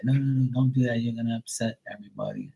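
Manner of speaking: high-pitched imitation of an urgent objection; restraining. Acting man stopping the grandfather.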